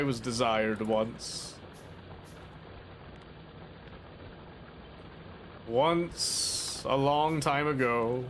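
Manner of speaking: slow, dreamy mock melancholy; mock wistful. Gamer joking about being desired, hammed-up wistfulness. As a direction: sigh it like a tragic poet.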